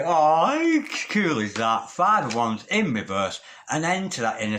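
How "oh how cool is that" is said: real delight. Real, not acted. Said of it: "delighted at card".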